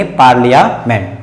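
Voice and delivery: पार्लियामेंट as paar-lya, slight break, ment; short i in पार्लियामेंट, careful falling end; correct pronunciation. Shown as a demonstration. Teacher gives the final reading, correct pronunciation. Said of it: "इसे पढ़ेंगे".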